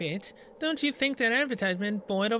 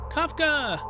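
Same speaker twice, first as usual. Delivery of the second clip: surprised shout; 5 semitones higher than usual. Real, not acted. Poster flips, recognises Kafka.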